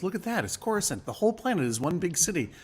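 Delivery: mock awe of a film pilot; marveling. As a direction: gush in wonder, as if sightseeing. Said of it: "marvel in his eyes".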